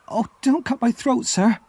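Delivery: put-on high, pleading child's voice; terrified boy begging the convict not to hurt him; frightened cry. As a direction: beg for your life, voice up high. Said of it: "I cried".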